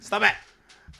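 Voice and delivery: laughing stop it. Real, not acted. Laughing at co-host's smug face.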